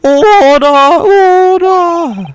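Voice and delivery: loud, high judge bellowing for order; shouting judge. Acted. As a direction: slam out the call for order. Judge calls the courtroom to order.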